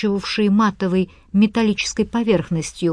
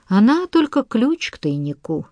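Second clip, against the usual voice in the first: dismissive; 4 semitones higher than usual. Acted. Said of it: "проговорил он пренебрежительно".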